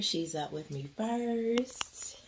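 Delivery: whisper. Real, not acted. Showing Taylor on camera.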